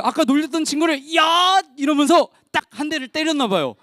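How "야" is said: short, higher-pitched mock shout; hammed-up angry "hey"; acted angry yell. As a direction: burst out as a cross friend. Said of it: "화가 너무 났는지".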